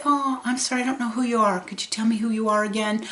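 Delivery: lightly voiced elderly mother, puzzled; imitating confused mom. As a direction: ask kindly like a stranger.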